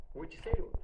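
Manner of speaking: lieutenant grilling the inmate loudly; interrogating. Retold or imitated. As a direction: press him hard for an answer.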